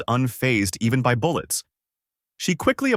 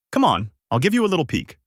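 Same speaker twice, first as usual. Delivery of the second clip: higher, lightly coaxing tone; coy, seductive; 7 semitones higher, faster than usual. A narrator's reading. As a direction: coax coyly, only a touch of seduction. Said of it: "she said seductively".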